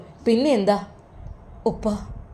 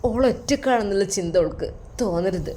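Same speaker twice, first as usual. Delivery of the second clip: put-on tearful old father; 5 dB quieter than usual. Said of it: "അത് പറഞ്ഞുകൊണ്ട് കരയുന്നു".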